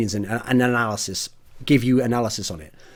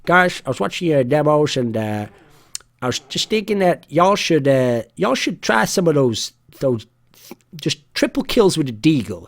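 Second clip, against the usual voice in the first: attempted Red Deck accent. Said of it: "a Red Deck accent".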